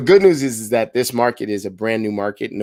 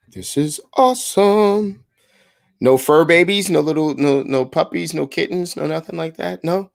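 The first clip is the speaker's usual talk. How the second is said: excited; 6 semitones higher than usual. Real, not acted. Agent thrilled that the renters have no pets, excited. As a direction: gush with genuine delight.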